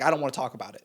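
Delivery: understated matter-of-fact refusal, imitating him. Cop shutting down the nosy driver, matter-of-fact. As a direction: retell it as a plain, closed-off statement. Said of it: "matter of fact".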